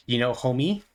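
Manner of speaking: slowed-down mock cool-kid slang; hamming up street talk to sound young. Ironic aside to viewers, slow mock slang. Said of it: "as the kids say".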